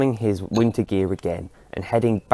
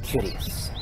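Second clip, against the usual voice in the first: whispered musing; 6 dB quieter than usual. Acted. Old man musing.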